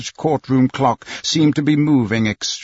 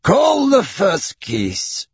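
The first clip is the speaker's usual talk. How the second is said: slow, high official call; judge calling court; 9 semitones higher, much slower than usual. Acted. Judge orders the first case called, slow and official. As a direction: draw out the order in a raised voice.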